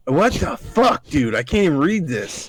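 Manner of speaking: high-pitched, baffled outburst; exasperated disbelief. Real, not acted. Reader baffled by the garbled email, exasperated disbelief. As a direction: stretch it out, pitch jumping up in bafflement.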